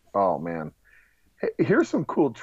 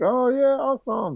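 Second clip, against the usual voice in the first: high, loud mock enthusiasm; excited studio execs; 5 dB louder than usual. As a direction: gush like thrilled executives. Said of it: "so they're like".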